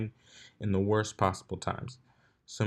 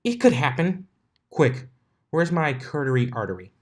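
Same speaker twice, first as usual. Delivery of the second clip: higher, louder hammed-up dragon panic; mock panic; 5 semitones higher, 5 dB louder than usual. A narrator's reading. Little dragon faking panic to tease Twilight. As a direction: ham up a fake emergency.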